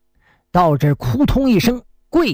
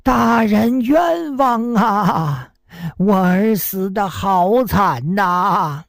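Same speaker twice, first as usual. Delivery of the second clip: slow, drawn-out wail of injustice; wailing grievance; much slower than usual. Acted. 老父亲在公堂上向大人哭诉冤屈，拖长哀声. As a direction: stretch it out like a grieving father begging. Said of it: "口称冤枉".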